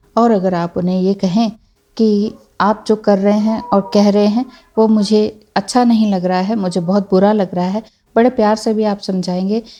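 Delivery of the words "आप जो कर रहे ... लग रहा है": usual speaking voice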